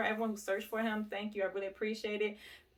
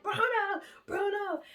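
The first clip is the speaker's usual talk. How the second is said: much higher, louder calling of a name; 12 semitones higher, 4 dB louder than usual. Retold or imitated. Husband running to the gate calling the lost dog loudly. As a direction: call the dog from across the yard. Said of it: "He was like".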